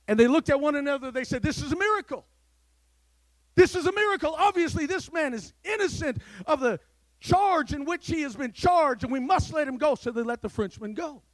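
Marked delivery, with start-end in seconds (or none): 1.4-9.9 raised, louder astonished voice; amazed executioners. Acted. Executioners stunned at the stopped blade, astonished. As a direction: marvel aloud at the miracle.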